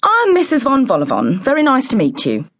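high, falsely sweet greeting; plastered-on smile. A narrator's reading. Lady introducing herself to visitors, falsely sweet. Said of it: "plastered a smile on her face".

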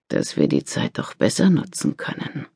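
soft whisper. Acted. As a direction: whisper it close to her. Husband coaxes in bed.

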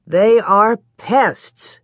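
slow, punched-out complaint; emphatic grumble. Acted. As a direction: weigh each word in annoyance. Pa grumbles about gophers.

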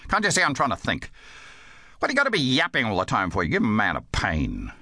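fast, exasperated scolding; snapping. Acted. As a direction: rattle it off irritably at a chattering child. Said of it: "he snapped".

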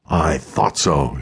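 slow, mild sneer; a touch of contempt, drawn out slowly. Acted. Colonel sneering at the Legion sergeant, slow mild sneer. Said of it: "he sneered".

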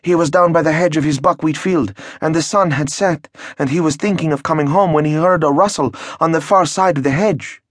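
high, frightened telling of the wolf; frightened peasant. Acted. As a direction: tell it wide-eyed and scared. Peasant tells werewolf tale.

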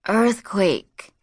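drowsy slurred word. Acted. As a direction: slur it, half knocked out. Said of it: "Caitlin slurred".

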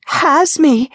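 high, stammered cry of alarm; mock-horrified cry. Ariana pretends something has caught her, crying out dramatically. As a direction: act out being seized, stuttering. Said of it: "Ariana cried".

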